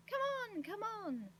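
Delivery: high, urging call; delighted shout. A narrator's reading. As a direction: hurry them along in a high, loud cry. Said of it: "shouting in delight".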